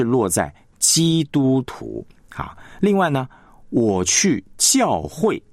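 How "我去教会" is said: slow, weight on 教会; 重音在教会; stress on 教会. Shown as a demonstration. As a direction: press 教会 as the key content. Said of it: "你去教会".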